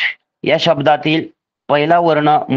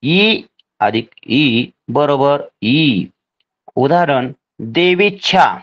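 slow dictation; slower than usual. Shown as a demonstration. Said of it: "तर पहा".

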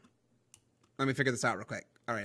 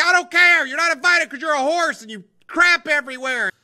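high, loud acted scolding; high-pitched mock outburst; mock irritated retort; 7 semitones higher, 8 dB louder than usual. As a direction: tell off the horse loudly, hammed-up. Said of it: "I'm like".

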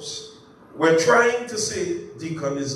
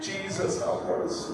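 breathy plea; 3 semitones lower, 8 dB quieter than usual. Real, not acted. Preacher's aside to God.

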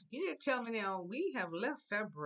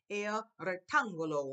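"rectángulo" with the TÁN raised and punched; stress on accented syllable; 6 dB louder than usual. Shown as a demonstration. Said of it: "I know to go up".

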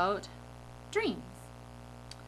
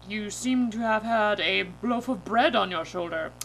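loud, lightly voiced authority; police officer; 6 dB louder than usual. Officer accusing the driver, lightly put-on stern voice. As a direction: state it like a cop. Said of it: "The officer goes".

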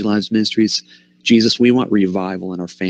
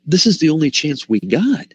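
passionate plea; 4 semitones higher than usual. Retold or imitated. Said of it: "he's so passionate because he's saying".

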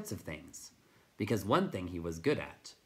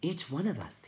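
chirpy high voice; 8 semitones higher than usual. A narrator's reading. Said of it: "he chirped".

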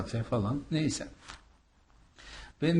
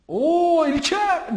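loud, high greeting shout; Murat Usta bağırışı; 8 dB louder, much slower than usual. Retold or imitated. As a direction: call out a long drawn-out hail, imitating a friend. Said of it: "diye bağırınca". (yüksek, uzatılmış selam bağırışı)

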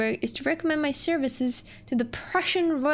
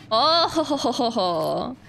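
laughing; 4 dB louder than usual. Real, not acted.

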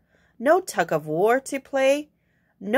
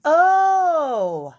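surprised librarian; 8 semitones higher, 3 dB louder, slower than usual. Acted. Librarian finds what hen wants.

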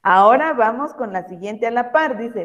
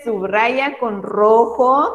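slowed right down, each word spaced out; slow dictation; much slower than usual. Shown as a demonstration. Teacher reads the instruction slowly to the children. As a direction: read it out slowly for the class to follow. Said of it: "donde dice".

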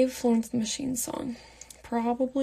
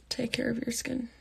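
hushed tip, almost all breath; whispered; 6 dB quieter than usual. Real, not acted. Giving fans a beauty tip in a whisper. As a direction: say it barely voiced, close and soft.

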